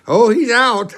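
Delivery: high, loud exclamation through a laugh; laughing emphatic quote. Retold or imitated. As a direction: break up laughing as you confirm it. Laughing retold answer about passed-out Dave.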